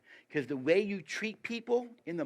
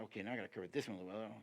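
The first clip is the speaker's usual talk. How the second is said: mock checklist talk; 3 semitones lower, 8 dB quieter, faster than usual. Mock checklist prayer to spouse.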